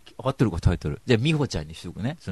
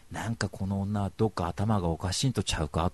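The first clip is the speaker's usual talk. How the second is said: inner Kansai grumble; 3 semitones lower, 4 dB quieter than usual. Retold or imitated. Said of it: "とかって思うわけ".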